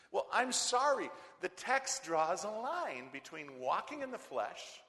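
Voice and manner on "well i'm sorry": loud, high mock apology; defiant preaching. Preacher answering critics with a loud mock apology. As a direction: throw the apology back at them.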